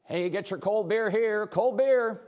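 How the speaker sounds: high, loud vendor call to the crowd; stadium vendor hawking. Acted. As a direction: hawk cold beer like at a ballpark. Promo tease, beer vendor call.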